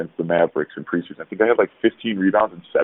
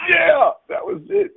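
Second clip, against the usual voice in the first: excited yelp; slower than usual. Real, not acted. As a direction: blurt it out mid-laugh. Laughing exclaim over the shoe story.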